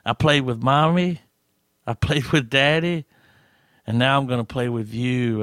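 a light imitation of a creepy little kid; singsong little horror-movie child, lightly done. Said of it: "in that little creepy kid voice".

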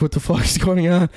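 high-pitched retold panic; retold freak-out. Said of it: "we, like, freaked out".

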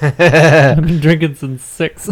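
drawn out and tipsy. Real, not acted. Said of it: "You are surprisingly drunk".

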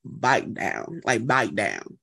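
"bite down" for "back down", Southern vowel. Shown as a demonstration. Host demonstrating the Southern "bite down". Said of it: "you say bite".

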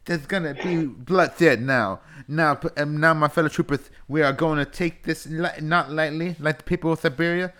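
high, loud Southern wrestling promo; hammed-up Southern wrestler rallying the troops; Dusty Rhodes impression. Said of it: "let me redo it as Dusty Rhodes".

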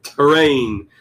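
Terrain with a punched opening T; over-enunciate the T of Terrain; hard T. Shown as a demonstration. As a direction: hit the first sound of Terrain hard. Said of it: "Saying your T's a little harder".

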